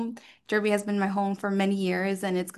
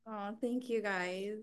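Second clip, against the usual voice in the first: emotional; 12 dB quieter than usual. Real, not acted. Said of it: "No, I'm getting emotional".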